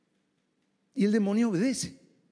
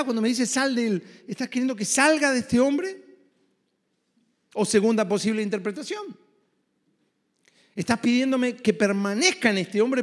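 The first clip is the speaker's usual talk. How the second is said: mock demon questioning; 3 semitones higher than usual. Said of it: "Imaginen al demonio diciendo".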